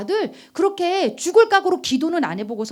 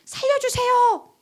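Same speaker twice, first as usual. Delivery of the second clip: pleading prayer building to high cries; earnest crying out; 8 semitones higher, 4 dB louder than usual. Acted. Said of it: "간절히 부르짖는 거예요". (간절한 기도에서 절규로 고조)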